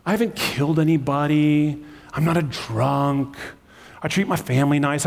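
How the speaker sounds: protesting innocence, stretching out key words; self-justifying. Acted. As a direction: voice an inner Saul making excuses. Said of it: "rationalizing the decisions you've made in your life".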